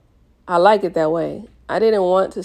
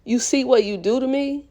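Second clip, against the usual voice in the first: high, loud anguished yell; loud pained yell at his girlfriend; 7 semitones higher, 3 dB louder than usual. Acted. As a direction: yell it out in pain and fury. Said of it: "he yelled".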